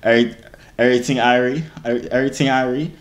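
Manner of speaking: lightly leaned-on Jamaican accent. Shown as a demonstration. Proving to viewers he is Jamaican, Jamaican accent. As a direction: drop into casual Jamaican patois. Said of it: "I'm Jamaican if you guys did not know".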